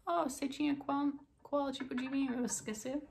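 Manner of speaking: a hint of a waitress. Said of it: "E se ela vai perguntar".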